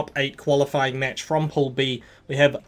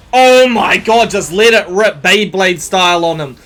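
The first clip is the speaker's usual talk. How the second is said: loud, higher hype call; roaring play-by-play; excited shout; 4 semitones higher, 8 dB louder than usual. Real, not acted. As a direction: let it rip like the crowd just exploded. Hype moment, both pop heat.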